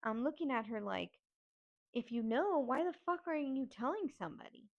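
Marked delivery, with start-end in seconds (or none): 1.9-4.7 retold yell, higher and a little forceful; angry yelling. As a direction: demand an explanation, voice climbing. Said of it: "Yelling at my aunt".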